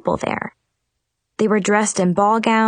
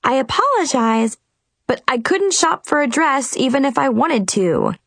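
sarcastic; 6 semitones higher than usual. A narrator's reading. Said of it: "I answered somewhat sarcastically".

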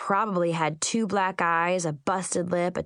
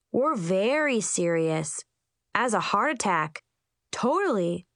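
solemn. Acted. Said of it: "the group answered solemnly".

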